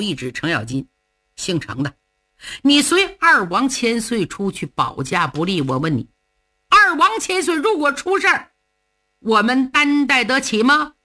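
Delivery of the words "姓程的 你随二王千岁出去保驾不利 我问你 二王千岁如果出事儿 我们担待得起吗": stern rebuke. Acted. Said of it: "把脸沉下来".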